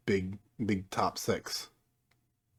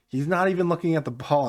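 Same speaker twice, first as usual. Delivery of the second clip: high, loud amazed repeat; disbelieving; 7 semitones higher, 5 dB louder than usual. Real, not acted. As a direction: say it stunned, voice raised. Disbelief at own goal.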